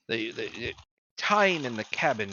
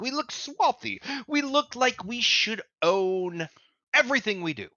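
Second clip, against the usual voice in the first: pompous sage; 9 semitones higher than usual. Acted. Sage boasts of being Macretus.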